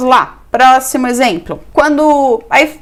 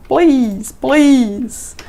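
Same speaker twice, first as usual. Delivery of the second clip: please said slowly twice, pressed; stress on please; 2 semitones higher than usual. Shown as a demonstration. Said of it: "Não esquece nunca de colocar os please". (ênfase no please)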